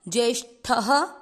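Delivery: ज्येष्ठः, ending in ह; visarga as ह. Shown as a demonstration. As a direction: end ज्येष्ठः with a light breath ह. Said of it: "विसर्ग को पढ़ेंगे ह".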